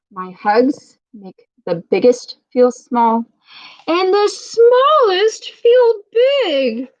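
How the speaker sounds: slow, high, stretched storybook voice; a gently hammed-up hug machine. A narrator's reading. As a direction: draw out the last words up high. Reading the hug machine's line.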